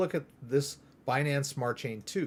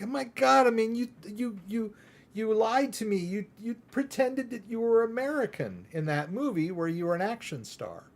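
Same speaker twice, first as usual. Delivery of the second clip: higher, half-joking shocked whine; mock outrage; 7 semitones higher than usual. Fan reacting to the actor's Australian accent, mock betrayed. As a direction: play the betrayed fan, hamming it up.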